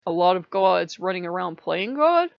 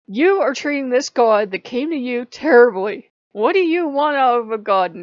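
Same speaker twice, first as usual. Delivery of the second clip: retold scolding; 4 semitones higher, 9 dB louder than usual. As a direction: lay down the law like a stern god. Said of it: "And yelling at me for five minutes straight".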